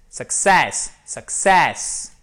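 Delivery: "success" joined up, strong SESS; stress on second syllable. Shown as a demonstration. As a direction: model "success", punch the last syllable. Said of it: "c'est l'accent tonique qui est sur cette seconde syllabe". (« success » d'un trait, finale appuyée)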